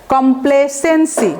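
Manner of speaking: slow, careful demo of কমপ্লেসেন্সি; careful pronunciation. Shown as a demonstration. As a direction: say কমপ্লেসেন্সি slowly, stretching SEN. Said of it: "উচ্চারণটা দেখেন".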